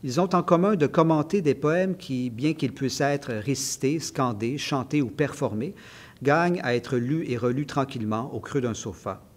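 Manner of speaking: measured, evenly phrased author's reading; literary reading aloud. Acted. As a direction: read your essay aloud, phrase by phrase. Reads a passage from the book. (lecture littéraire posée à voix haute)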